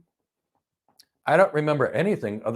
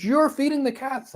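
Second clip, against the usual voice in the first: higher, slow mock accusing yell; imitating a shriek; 12 semitones higher than usual. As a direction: play the angry neighbor shrieking at you. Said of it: "proceeded to scream at me".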